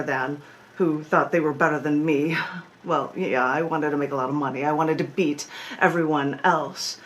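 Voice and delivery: performed spoken-word poem, measured phrasing; poetry reading with dramatic pauses; poem recitation. Acted. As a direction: recite it deliberately, leaning on key words. Recites own poem Burn It In.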